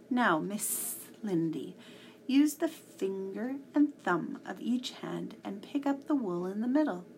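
smooth cat giving instructions, lingering on the S; Splinter Cat teaching. Acted. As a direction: coax her along as a storybook cat.

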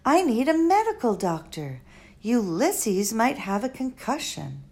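lightly voiced exasperated girl; a hint of girlish impatience; Flora. Girl exasperated at the old doctor, mild.

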